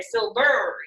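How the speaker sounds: silVER, weight moved to second syllable; flipped stress on silVER. Shown as a demonstration. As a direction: lean wrongly on the end of silver. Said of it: "pronounce it this way".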